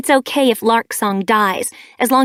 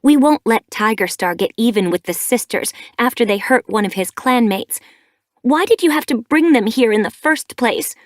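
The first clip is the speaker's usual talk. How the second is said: louder, higher, accusing; glaring anger; 4 semitones higher, 7 dB louder than usual. A narrator's reading. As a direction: press the attack on her mother. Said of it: "Sparkpelt glared at her".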